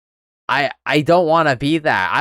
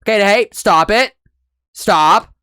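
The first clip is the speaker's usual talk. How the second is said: raised pitch, curt imitation of losing patience; mock impatient order; 7 semitones higher, 5 dB louder than usual. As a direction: cut them off like someone out of patience. Imitating impatient man dropping his patience.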